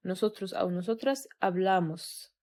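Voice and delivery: slow, clear conjugation drill. Shown as a demonstration. Spanish teacher drilling nosotros hablamos, slowly. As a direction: pronounce each form carefully for students. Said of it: "تمام".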